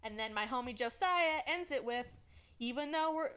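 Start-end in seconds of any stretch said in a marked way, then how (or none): 2.6-3.3 out of breath; winded, gasping between phrases. Real, not acted. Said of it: "I'm out of breath".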